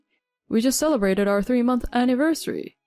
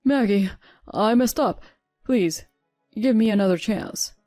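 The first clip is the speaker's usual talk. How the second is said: louder, urgent pleading husband; desperate plea; 5 dB louder than usual. Acted. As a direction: beg her not to leave. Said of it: "my husband's desperate plea".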